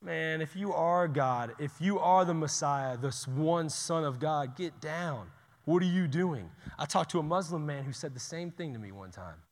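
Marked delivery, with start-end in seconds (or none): 0.0-6.5 mocking taunt. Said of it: "They're mocking him".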